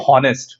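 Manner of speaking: "honest" with the H sounded; mispronounced honest. Shown as a demonstration. Teacher showing what we don't say, "honest" with a spoken H. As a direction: breathe an H at the start of "honest". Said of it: "So we don't say".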